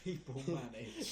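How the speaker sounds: echoing it through a laugh; slow amused repeat. Real, not acted.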